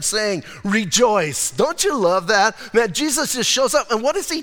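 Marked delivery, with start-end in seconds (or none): 0.0-1.5 'Rejoice' read slow and drawn out; slow read rejoice. Shown as a demonstration. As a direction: stretch 'Rejoice' as you read it. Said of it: "I love the way he tells them".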